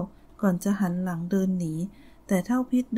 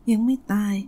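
growled; 4 dB louder than usual. Acted. Old woman denying her daughter is dead, growling. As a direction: snarl it back at him. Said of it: "นางคำรามดวงตาวาวโรจน์".

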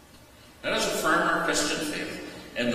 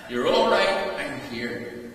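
reassuring a son; 6 semitones higher than usual. Retold or imitated. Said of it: "and said".

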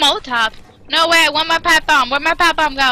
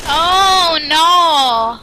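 higher, drawn-out oh no; mock dismay; 3 semitones higher, 4 dB louder than usual. Player hearing of an incoming horde, mock dismay. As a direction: wail it in playful alarm.

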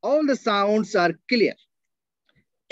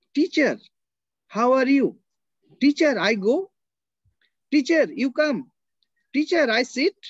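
higher, eager student calling out "Teacher"; Saudi students' broken English; 5 semitones higher than usual. Retold or imitated. Saudi students greeting their new teacher in simple English, eager. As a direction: mimic a beginner student calling "Teacher" in short broken phrases. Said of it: "how the students will communicate".

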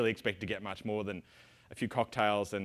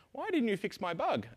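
mock complaining user; 11 semitones higher than usual. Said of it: "your opportunity to say to me".

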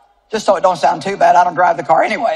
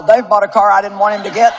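mock indignant shout. Mock complaint about husband.

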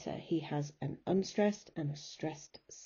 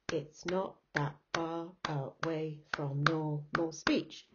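counting out ten beats, each syllable detached. Shown as a demonstration. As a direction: chop "away" and "normal" into separate syllables, evenly paced. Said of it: "Ten syllables".

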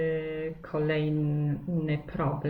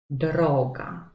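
"droga" with DRO stressed; stress on penultimate syllable; 3 dB louder than usual. Shown as a demonstration. Teacher giving pupils an example of the rule, "droga" stressed on dro. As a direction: punch the first of two syllables in "droga": DROga. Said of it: "na drugą sylabę od końca".

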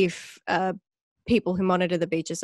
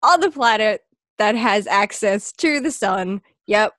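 louder, mock-proud sarcasm; sarcastic boast; 3 semitones higher, 3 dB louder than usual. Mocking a silly list about Australia, sarcastic bragging. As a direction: ham up fake Aussie pride.

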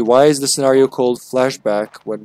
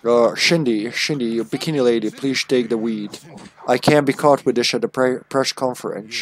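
slurred Scottish impression, s turned to sh; lightly hammed-up Scottish film star; Sean Connery. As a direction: play a suave Scot, slurring the esses. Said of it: "Sean Connery accent".

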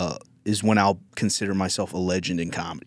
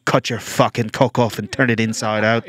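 mock angry inner voice; 3 semitones higher, 4 dB louder than usual. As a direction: bark it like a drill sergeant. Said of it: "that voice in your head".

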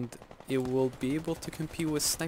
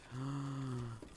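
quick soft gasp of alarm; a real startled intake of breath; sharp gasp; 10 dB quieter than usual. Real, not acted. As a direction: gasp while nearly dying in the game. Nearly dies while hiding.

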